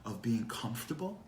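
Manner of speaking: lightly voiced God, rising questions; questioning God. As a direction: challenge them with mild, mock disbelief. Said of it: "And God goes".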